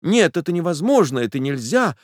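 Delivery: Nastenka's firm high voice; resolute refusal. A narrator's reading. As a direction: refuse decisively. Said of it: "отвечала она решительно".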